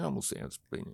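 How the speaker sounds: quiet, unvoiced, hushed, breathy whisper. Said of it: "I'm, like, going".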